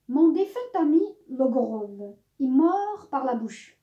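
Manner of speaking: measured satirical poem reading with lifted phrases; declaimed verse with emphatic peaks and pauses; poem recitation. Acted. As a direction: recite it line by line, pausing between phrases. Reads a translated poem aloud.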